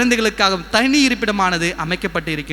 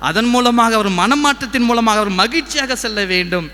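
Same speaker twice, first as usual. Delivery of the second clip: preaching; 3 semitones higher than usual. Acted. Preacher cites scripture on God seeing tears, preaching. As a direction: proclaim God's word from the pulpit.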